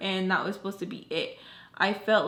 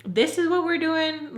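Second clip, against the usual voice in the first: much higher, louder and slower, incredulous; exasperated disbelief; 8 semitones higher, 3 dB louder than usual. Retold or imitated. Repeating to Tommy, fed up, exasperated disbelief. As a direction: stretch it out, fed up and stunned. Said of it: "And I'm just like".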